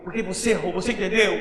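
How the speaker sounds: put-on soft and low, a father consoling his crying child; gentle father. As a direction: hush the voice down as a loving dad. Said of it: "E o pai diz assim".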